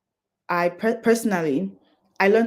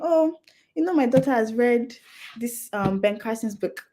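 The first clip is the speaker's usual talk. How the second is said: a light, higher imitation of a proud mother; proud mom; 5 semitones higher than usual. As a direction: brag the way mom did. Mom boasting about her daughter.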